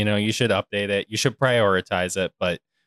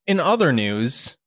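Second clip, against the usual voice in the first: news anchor voice; 5 semitones higher, 3 dB louder, slower than usual. Pretend. Anchor-style transition.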